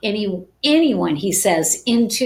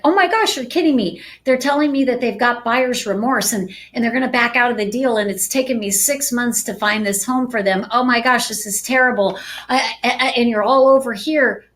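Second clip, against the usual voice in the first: a touch higher, frantic, hammed-up worry; mock panic; 3 semitones higher, faster than usual. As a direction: play your own flustered panic over the deal. Acting out own panic.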